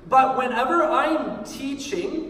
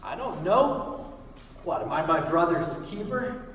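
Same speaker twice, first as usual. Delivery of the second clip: offhand, dismissive Cain shrug; disregarding; 3 semitones lower than usual. Acted. Cain answering God about his missing brother, disregarding. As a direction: brush the question off with disregard. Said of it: "a very disregarding way".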